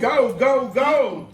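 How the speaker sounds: loud cheering. Real, not acted. Cheering kids on in eating race.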